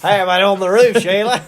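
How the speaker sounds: loud, high, hammed-up Aussie; Australian accent. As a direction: mimic a stock Australian, laughing at it. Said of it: "in an Australian accent".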